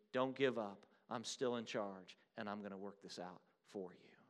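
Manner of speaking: quiet, steady reassurance; calm voice. Acted. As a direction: settle them gently, you're in charge. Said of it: "In a seemingly calm voice".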